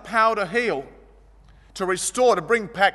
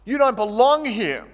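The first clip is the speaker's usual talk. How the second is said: higher and louder, scolding the beggar; scornful crowd rebuke; 4 semitones higher, 4 dB louder than usual. Acted. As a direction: push him away with contempt. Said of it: "They were saying".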